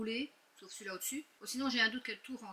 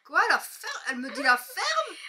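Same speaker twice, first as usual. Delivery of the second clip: surprised; 8 semitones higher, 8 dB louder than usual. Real, not acted. Surprised at daughter's words.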